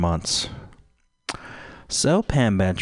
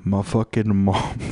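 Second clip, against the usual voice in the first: mock crying athlete. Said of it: "They're like".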